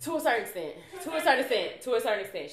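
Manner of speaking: tight jaw, teeth held together; through gritted teeth. Real, not acted. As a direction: say it with a clenched jaw. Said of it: "I'm clenching my teeth right now".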